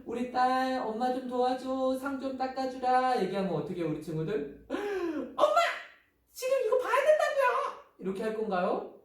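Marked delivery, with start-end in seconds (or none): 0.0-3.2 mother. Acted. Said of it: "엄마가". 4.7-7.8 very high, loud whine at a parent; hammed-up indignant kid refusing; protesting child.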